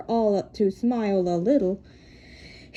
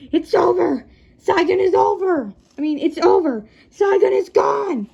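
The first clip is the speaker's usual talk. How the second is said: loud anguished exclamations; raised voice of dread; despairing cry; 5 semitones higher, 5 dB louder than usual. A narrator's reading. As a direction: cry out that all is lost. Pilot announces defeat.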